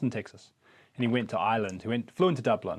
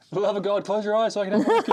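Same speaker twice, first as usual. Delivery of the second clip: higher, louder, fast laughing plea; 9 semitones higher, 4 dB louder, faster than usual. Real, not acted. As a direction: beg through laughter to close eyes. Pleading for eyes closed, laughing.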